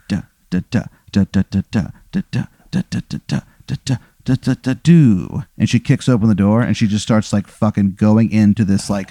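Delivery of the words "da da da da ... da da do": rhythmic knocking. Acted. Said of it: "it's in a rhythmic pattern".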